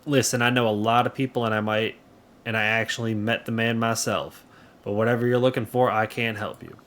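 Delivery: lightly southern character voice; light southern accent. Acted. Local declines to give up the bandit, light southern accent. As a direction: play it with a mild southern twang. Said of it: "that is my southern accent".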